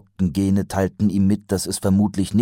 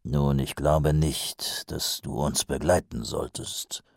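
whispered; 4 semitones lower, 5 dB quieter, slower than usual. Acted. Mumm hesitant objection.

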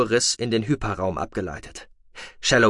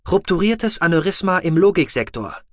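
a higher, mechanical machine voice; rasping med box; 8 semitones higher, 4 dB louder than usual. A narrator's reading. The medical box reporting vital signs in a mechanical rasp. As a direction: sound like a rattling medical device reading out. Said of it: "sagte die Medobox".

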